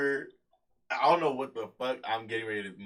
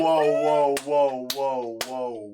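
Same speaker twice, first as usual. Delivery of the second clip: excited; 7 dB louder, much slower than usual. Real, not acted. Reacting to porn joke.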